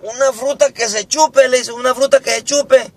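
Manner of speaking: high, lively classroom question; teacher asking. Acted. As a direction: put the question to a pupil, high. Maestra pregunta a José. (maestra preguntando con voz alta)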